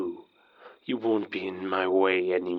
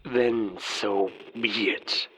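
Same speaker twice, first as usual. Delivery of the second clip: cold whisper; slower than usual. Acted. Villain accepts duel.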